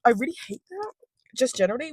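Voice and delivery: annoyed rant. Real, not acted. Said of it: "you can tell I'm angry".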